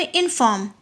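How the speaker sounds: इनफॉर्म with a light इन and a weightier फॉर्म; stress on फॉर्म. Shown as a demonstration. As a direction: lean on the second syllable of इनफॉर्म. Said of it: "जिसमें हम थोड़ा सा stress दे के बोलते हैं".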